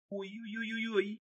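very high, soft, slow whimpers; wounded woman whimpering softly; quiet whimpering. A narrator's reading. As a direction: whimper in pain. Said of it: "тихо заскулила она".

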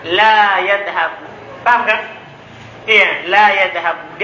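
la yadhabu said slowly with no doubled n; la yadhabu, each syllable drawn out; la yadhabu as the teacher models it; correct Arabic form. Shown as a demonstration. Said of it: "Tidak boleh antum katakan la yadhabanna".

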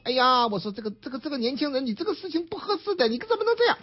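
a hint of a fussy older woman telling him off; scolding auntie. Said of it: "边上一大婶子实在是看不下去了".

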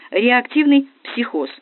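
loud, high, drawn-out cry; shouting. A narrator's reading. Машка adds a second diagnosis, shouting slowly. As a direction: stretch the diagnosis out loudly. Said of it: "закричала Машка".

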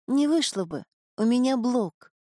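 a hint of a resigned young woman. Marin speaks.

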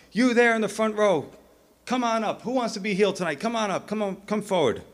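high, urgent call to the crowd; lightly hammed-up revival healer; faith healer. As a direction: summon them forward like a tent preacher. Acting healer calling up the crowd.

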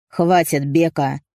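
a hint of a stern brother; warning. A narrator's reading. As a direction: cut him off with a warning. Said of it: "предупредил Рашид".

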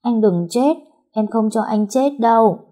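put-on high, pleading little-girl wail; acted tearful plea. A narrator's reading. Girl clinging to her injured friend, acted crying plea. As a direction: beg through pretended tears. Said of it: "cô khóc òa lên".

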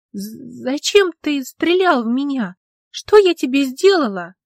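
scared, stammering demand; frightened accusation. A narrator's reading. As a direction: accuse him through shaky fear.

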